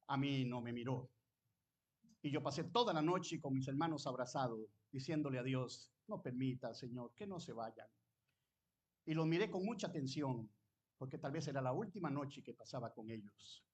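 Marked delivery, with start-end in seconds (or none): 6.1-7.9 soft, hushed plea to God; quiet retold prayer. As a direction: pray it softly, as the boy did that night. Child's desperate night prayer retold. (súplica suave y baja)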